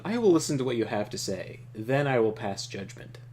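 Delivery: a lightly voiced calm, powerful leader; Trakov voice. Reading Trakov's lines to the player, calm and commanding. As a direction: play him as a composed ruler opening talks.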